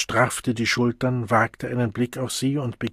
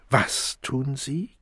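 irritated; 2 semitones higher, 4 dB quieter, much slower than usual. Acted. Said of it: "Gereiztheit schlich sich wieder in ihre Stimme".

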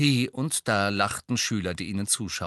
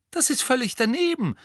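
very high, raised-voice protest; furious; 4 dB louder than usual. A narrator's reading. Ron condemning Hermine's hat plan, angry. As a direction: object hotly. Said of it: "sagte Ron wütend".

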